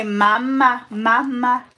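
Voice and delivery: loud, clear word prompt. Real, not acted. Coaxing baby to say word.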